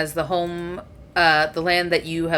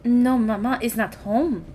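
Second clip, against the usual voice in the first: sister's answer; 6 semitones higher than usual. Acted.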